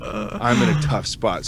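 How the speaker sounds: slow, lightly put-on Irish accent; a hint of an Irish brogue, slow. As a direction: plead in a mock Irish voice. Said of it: "he's the Irish version".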